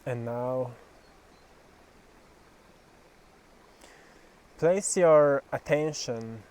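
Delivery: measured meditation guidance, phrase by phrase; slow, deliberate guiding voice, firmly projected; guided meditation. Acted. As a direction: lead a visualisation with long pauses. Leads a guided visualisation.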